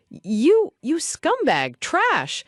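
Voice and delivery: high furious scream. A narrator's reading. Boy screaming at the guards through the door, high furious scream. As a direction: hurl the insults up high in rage. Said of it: "the furious boy points towards the door and screams".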